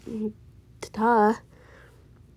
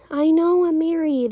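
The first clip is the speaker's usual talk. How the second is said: real exasperation, higher and louder, drawn out; exasperated; 6 semitones higher, 5 dB louder, slower than usual. Real, not acted. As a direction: insist slowly, raised voice, fed up. Repeated reassurance, exasperated reply.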